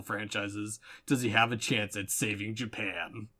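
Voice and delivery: grand, dramatic trailer voiceover; epic fantasy narrator. Acted. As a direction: narrate like a film preview. Mock movie trailer narration.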